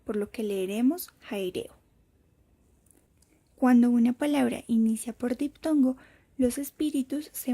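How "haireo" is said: "jaireo" opening on an aspirated h; rough breathing. Shown as a demonstration. Teacher reading the second example, rough breathing. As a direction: say "jaireo" with an English-style h before the vowel. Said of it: "cuenta con un espíritu áspero".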